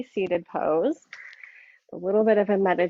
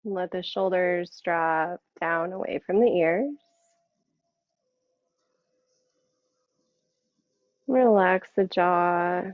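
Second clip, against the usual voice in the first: guided meditation. Acted. Yoga teacher settling the class into seated practice, guided meditation. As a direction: ease them inward, unhurried, letting each phrase settle.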